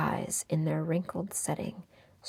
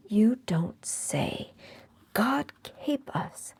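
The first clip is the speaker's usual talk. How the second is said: sprightly; 5 semitones higher, 3 dB louder, slower than usual. A narrator's reading. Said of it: "in a sprightly tone".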